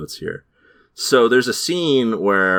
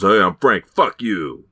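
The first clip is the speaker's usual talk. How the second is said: bad impression of a crooner. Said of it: "supposed to be like a crooner impression".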